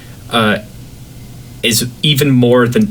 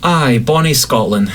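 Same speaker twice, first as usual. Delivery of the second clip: slow, hammed-up Scottish accent on Aye; thick Scottish accent; 4 semitones higher, slower than usual. Scottish guest teasing the host with a hammed-up Scottish accent. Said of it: "you can't turn the accent up".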